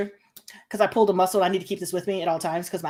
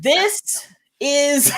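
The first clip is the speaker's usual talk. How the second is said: loud burst of laughing at This is; cracking up, loud; shouted laughter; 8 semitones higher, 4 dB louder than usual. Real, not acted. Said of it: "laughs shout".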